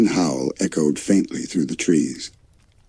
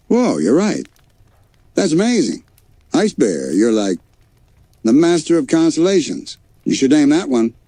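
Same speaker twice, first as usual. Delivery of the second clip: much higher, louder excited praise; amazed; 10 semitones higher, 3 dB louder than usual. A narrator's reading. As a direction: gush with wonder at the sky. Grizz amazed by the constellation.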